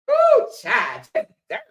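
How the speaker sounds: very high exclaimed ooh; high squeal. Real, not acted. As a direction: squeal it out in disgust.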